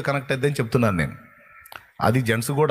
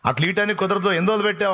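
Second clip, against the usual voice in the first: uncle's voice pitched higher, pressing; uncle's pitched-up retort; 6 semitones higher, faster than usual. Acted. Uncle asks the daughter-in-law how many days, in a raised voice. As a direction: quiz her sharply, voice up high.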